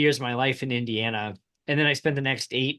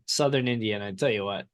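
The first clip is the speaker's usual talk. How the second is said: put-on southern accent; 5 semitones lower, faster than usual. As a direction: lean into a southern Indiana twang. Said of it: "You just did it".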